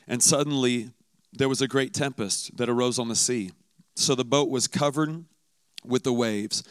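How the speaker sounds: scripture reading. Acted. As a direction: read the Gospel steadily, like a lesson from the pulpit. Reads the Gospel passage aloud.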